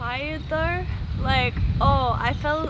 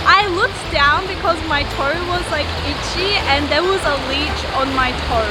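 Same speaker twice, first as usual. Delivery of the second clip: louder, startled leech report; alarmed; 3 semitones higher, 5 dB louder than usual. Real, not acted. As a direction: blurt it out, rattled by the leech. Finds leech on toe.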